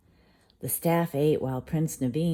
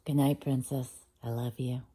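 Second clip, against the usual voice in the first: tender goodnight; 2 semitones lower, 5 dB quieter than usual. Real, not acted. Parent saying goodnight to the child, soft and tender. Parent ending bedtime story.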